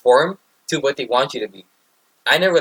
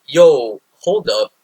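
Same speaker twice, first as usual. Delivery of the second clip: startled, raised-voice "yo"; alarmed; 6 dB louder, much slower than usual. Retold or imitated. Recruit stopping a kid with a knife, alarmed. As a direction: call out to halt someone in alarm.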